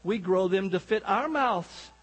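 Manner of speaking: slow, lightly imitated Scottish accent; a hint of Scottish in a slow punchline. Scotsman topping the Texan's potato brag, slow mock Scottish accent. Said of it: "The Scotsman said".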